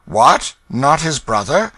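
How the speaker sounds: very high, loud astonished yelp; can't believe it; shocked gentleman. Acted. Stranger astonished.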